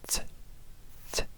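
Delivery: "ts" popped sharp with a glottal catch, no breath after; ejective ts. Shown as a demonstration. Teacher demonstrating an ejective "ts" for an old script letter. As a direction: spit out "ts" as an ejective, cut off hard. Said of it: "ejective consonant".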